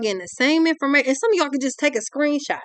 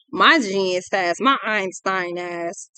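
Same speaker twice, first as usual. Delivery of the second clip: sarcastic self-praise; 4 semitones lower, much slower than usual. Real, not acted.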